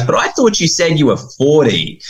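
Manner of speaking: put-on a kid catching the grown-up out; puzzled boy. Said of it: "And, and he goes".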